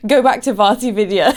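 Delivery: high squealing laughter over the words; laughing hard. Real, not acted. Laughing while reading the comment to viewers.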